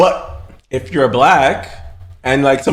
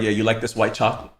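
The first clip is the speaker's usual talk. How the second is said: lower, softer teasing bedroom line; mock dirty talk; 7 semitones lower, 9 dB quieter, faster than usual. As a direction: purr it like pillow talk, half joking. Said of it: "I could be like".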